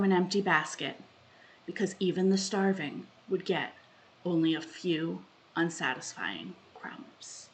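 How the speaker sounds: deliberate spoken poem with long pauses; a solemn, measured plea for forgiveness; poem reading. Acted. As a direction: open each plea firmly, let the endings fade. Reads own poem aloud.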